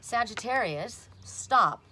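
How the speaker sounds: sharp, loud stop; a loud order to stop; emphatic stop. Real, not acted. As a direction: call it out like a command. Telling Sagittarius to stop.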